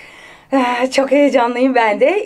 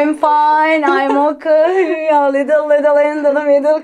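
mock English; 3 semitones higher, 4 dB louder than usual. Shown as a demonstration. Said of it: "İngilizcen de var".

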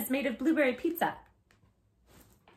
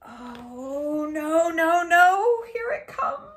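mock dread; 5 semitones higher, much slower than usual. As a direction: build up fake dread.

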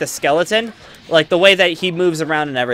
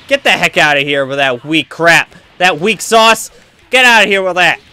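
loud trash talk; 5 dB louder than usual. Real, not acted. Blocking Frieza's weak attack.

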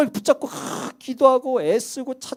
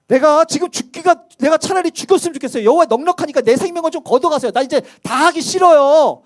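mock despairing plea; 4 semitones higher, 4 dB louder than usual. Elijah begging God to take his life, in a hammed-up lament. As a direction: beg to be let go. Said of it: "뭐라 그러면 이렇게 해요".

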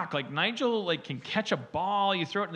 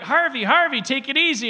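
calming the dog; 9 semitones higher, 8 dB louder than usual. Retold or imitated.

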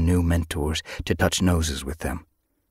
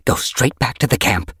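raised, controlled command; firm order; 6 semitones higher, 4 dB louder than usual. A narrator's reading. Yellowfang sending the kits back to camp, firm order. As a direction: give a firm order to youngsters. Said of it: "she ordered them".

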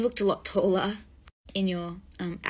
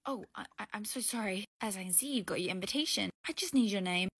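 much softer flustered apology; sheepish apology; 7 dB quieter, faster than usual. Acted. Doorman softly apologizing after upsetting the guest. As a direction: shrink back and apologize.

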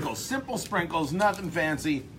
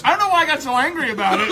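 laughing; 8 semitones higher, 8 dB louder than usual. Real, not acted. Laughing at own outburst.

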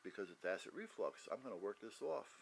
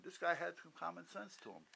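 ordinary delivery

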